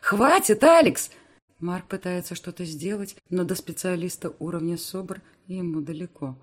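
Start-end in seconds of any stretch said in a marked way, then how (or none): 0.0-1.1 high, loud screaming plea; desperate shout. Acted. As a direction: scream at him to stop. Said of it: "выкрикиваю я".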